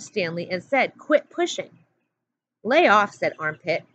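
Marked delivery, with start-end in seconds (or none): 1.0-1.7 Zigzag taunting. A narrator's reading. Zigzag shoves Stanley. 2.6-3.1 Armpit telling him off. A narrator's reading. Armpit breaks it up.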